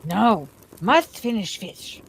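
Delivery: slow, stubborn creature whine. A narrator's reading. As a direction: dig in his heels. Gollum refuses.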